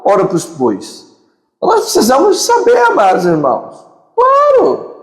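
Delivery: put-on jokey European Portuguese accent with high, fast bursts; mock Portuguese accent. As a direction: tease the crowd in a Lisbon accent. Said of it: "Vou puxar meu sotaque português aqui".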